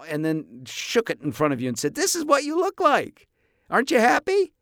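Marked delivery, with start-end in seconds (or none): 2.0-4.5 high, loud gleeful taunt; high-pitched mock-cheery jeer; taunting mockery. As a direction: shove it in their face in a high, loud mocking voice. Taunting with grotesque puppet.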